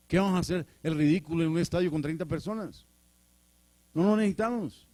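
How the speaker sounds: high-pitched, incredulous brush-off; acting out scornful objectors; indignant refusal. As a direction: reject the idea outright, voice climbing. Acted brethren rejecting the evangelist.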